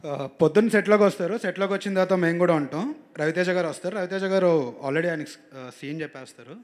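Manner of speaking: loud, animated retelling; lively set story. Real, not acted. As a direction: act out the set story for the crowd. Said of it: "బాగా imitate చేస్తావు". (సెట్ కథ ఉత్సాహంగా చెప్పడం)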